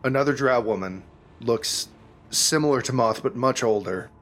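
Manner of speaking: measured narration with suspenseful pauses; game master's scene-setting. A narrator's reading. Game master describing the burning Underdark village, measured and suspenseful. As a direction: unfold the scene piece by piece.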